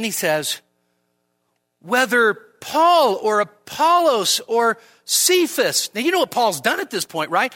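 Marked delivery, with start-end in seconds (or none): 1.8-5.9 louder, slow, every name weighed; proclaiming scripture; slow emphatic reading. Acted. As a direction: read each name deliberately.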